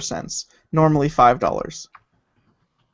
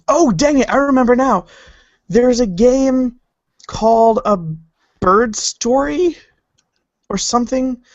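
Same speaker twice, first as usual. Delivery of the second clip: excited; 8 semitones higher, 4 dB louder, slower than usual. Real, not acted. Suddenly remembers the game.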